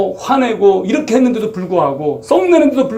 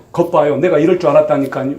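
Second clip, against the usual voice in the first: sulky Jonah; 5 semitones lower than usual. Retold or imitated. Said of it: "요나가 지금 뭐라고 말해요?".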